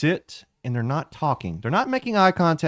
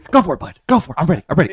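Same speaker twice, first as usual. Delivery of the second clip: taunting; 4 semitones higher, 7 dB louder, much faster than usual. Acted. GM voices Specs taunting.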